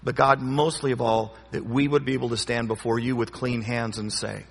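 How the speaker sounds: earnest spoken prayer, unhurried; closing prayer. Real, not acted. Closes in prayer.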